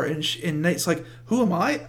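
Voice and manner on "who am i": much higher and louder, half-laughing imitated yell; mock angry retort. Nate fighting Brenda, a hammed-up shouted comeback through laughter. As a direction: throw the angry line back with a laugh breaking in.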